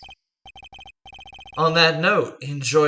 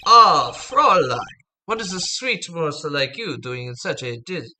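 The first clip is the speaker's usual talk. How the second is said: put-on a loose try at a suave German accent; attempted German accent. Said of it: "So he's German. I can't do good German".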